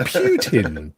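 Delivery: Putin said as "Pyootin", with a y glide; "Putin" with a y after the P; British pronunciation. Shown as a demonstration. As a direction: say "Putin" as Pyoo-tin. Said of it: "Putin rather than Putin".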